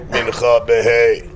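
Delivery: drawn-out prayer-house call. Pretend. Rabbi rounding up men for Mincha, mock calling out. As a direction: call it out slowly, playfully.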